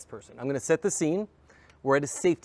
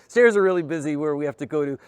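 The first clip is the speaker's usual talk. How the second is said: "Stairs" pushed out louder, with a knowing, ironic weight; ironic emphasis; 3 semitones higher, 9 dB louder than usual. Retold or imitated. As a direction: lean on "Stairs" as an obvious fib. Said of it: "there's, like, one person on the stairs".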